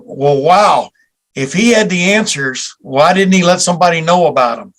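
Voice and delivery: feigned puzzlement, lightly put on; facetious. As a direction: pose it as a tongue-in-cheek question. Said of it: "I'm being facetious".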